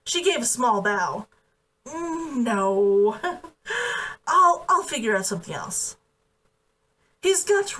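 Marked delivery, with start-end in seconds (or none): 1.8-6.0 a light flustered refusal with a nervous laugh; a hint of an embarrassed young woman, mildly voiced. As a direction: laugh off the embarrassment, then stumble on.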